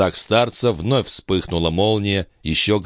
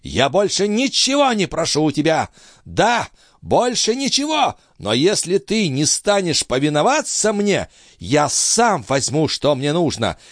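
put-on high, threatening old man's voice; menacing old master; 10 semitones higher than usual. A narrator's reading. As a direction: threaten him with a cold smile. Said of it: "с угрожающей улыбкой произнёс".

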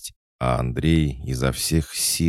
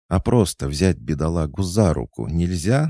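higher, huffy challenge; 6 semitones higher, 4 dB louder than usual. A narrator's reading. Regina objects to the leash, huffy. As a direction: protest on the poor thing's behalf. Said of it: "нахохлилась Регина".

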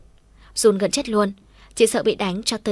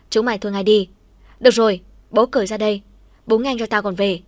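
fed-up shout; 5 dB louder than usual. Acted. Ends the brawl.

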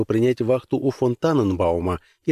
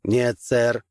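booming metallic robot voice. Acted. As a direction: speak like a machine. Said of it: "ответил тот металлическим голосом".

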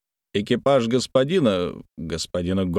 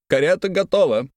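barked announcement; 8 semitones higher than usual. Acted. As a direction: bark it to the room. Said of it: "гаркнул".

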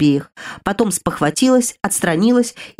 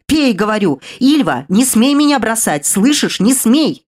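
desperate pleading; 3 semitones higher, 3 dB louder than usual. Acted. Sister begs dying girl to drink.

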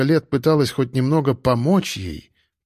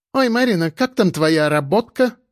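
snide aunt; 5 semitones higher than usual. Acted. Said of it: "фыркала при встрече София".

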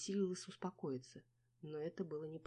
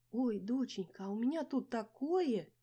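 higher, louder, slow wail; wailing lament; 7 semitones higher, 6 dB louder, slower than usual. A narrator's reading. Mother to her daughter, wailing lament. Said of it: "не своим тоном запричитала мама".

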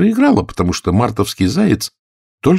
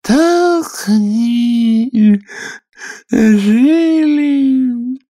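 high, very slow yawning squeak; nearly dozing off mid-word; sleepy Dormouse voice; 4 dB louder, much slower than usual. Acted. Dormouse yawning through her tale, sleepy and slow. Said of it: "сонным голосом".

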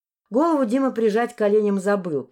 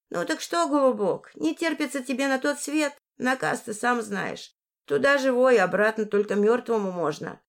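put-on higher-pitched old housekeeper, warning; lightly voiced old woman; 4 semitones higher than usual.

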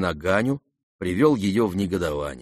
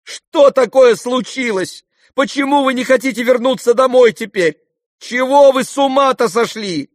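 son losing patience; boiling over; 14 semitones higher, 7 dB louder than usual. A narrator's reading. Kolya boils over at his father, high and loud. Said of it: "Закипел вдруг Коля".

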